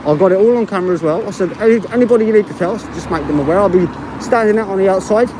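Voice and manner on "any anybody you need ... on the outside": talking through a face mask; words dulled by a mask; muffled through mask. Real, not acted. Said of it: "With the mask and the traffic, it's very difficult for me to hear".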